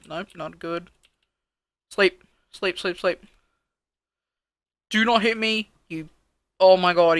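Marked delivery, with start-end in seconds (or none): 1.9-3.2 loud urging. Real, not acted. Urging the night to pass. 4.9-5.7 alarmed shout. Real, not acted. Mob attacking him in game. 6.6-7.2 loud alarmed cry; startled shout. Real, not acted. Being shot at in game.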